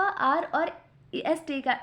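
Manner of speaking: आर और एसटी का said slowly, आर stretched; slow teacher's repeat of the answer; slow, drawn-out repeat. Shown as a demonstration. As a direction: repeat it slowly so students catch it. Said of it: "किसका इजाफा?".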